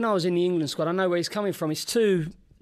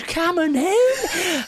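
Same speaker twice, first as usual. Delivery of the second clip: retold fight call; 12 semitones higher, 5 dB louder, much slower than usual. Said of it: "jumps straight on this fella and goes".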